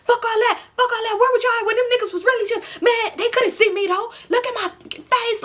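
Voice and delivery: hammed-up angry tirade; going in. Enemy rants at his friends for not jumping into the fight. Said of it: "he going in".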